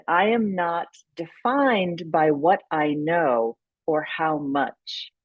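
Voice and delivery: slow, deliberate quote reading. Acted. Consultant reading an author's quote to the host, slow and measured. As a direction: read it out slowly, letting each item land.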